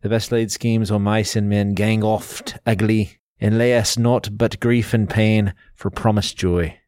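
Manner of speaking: lightly attempted Scottish accent, reciting verse; Scottish reading. Shown as a demonstration. Podcast host showing listeners how the poem sounds in Scots, lightly Scottish. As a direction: recite Burns slowly with a hint of Scots. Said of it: "Here's how it sounds in the Scottish".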